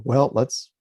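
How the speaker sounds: lightly mocked get-down-to-business voice; eager meditator. Teacher imitating people sitting down to meditate, mildly brisk and businesslike. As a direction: imitate someone rushing into meditation. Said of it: "people will sit down and they'll go".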